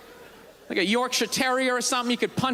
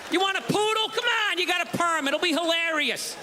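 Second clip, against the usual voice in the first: higher, brusque shelter guy; careless pound worker; 4 semitones higher than usual. Retold or imitated. Pound worker brushing off people who want a dog, brusque and higher. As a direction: shove the dog at them and wave them off.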